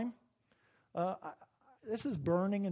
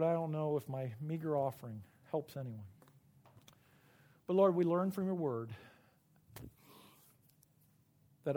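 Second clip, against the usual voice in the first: closing prayer. Acted. Pastor leads the church in a closing prayer, earnest. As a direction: pray it plainly for the congregation.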